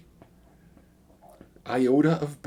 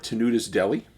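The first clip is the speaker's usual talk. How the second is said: "Tenuta's Deli" in a Chicago accent, said like "Tenudas Deli" with the t as a d; quick Chicago "Tenuta's Deli", flapped d in the middle; faster than usual. Real, not acted. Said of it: "got that Chicago accent in me. I always change some T's to D's".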